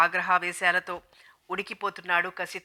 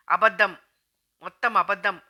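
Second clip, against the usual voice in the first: loud cry; 4 dB louder than usual. Acted. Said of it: "అరిచేసింది బిగ్గరగా సుగంధి".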